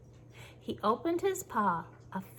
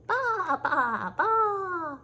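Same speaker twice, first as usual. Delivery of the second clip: high, loud whining bleat; crying sheep bleat; 9 semitones higher, 4 dB louder, much slower than usual. Pretend. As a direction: wail like a sheep up a tree. Sheep bleats bouncing up tree.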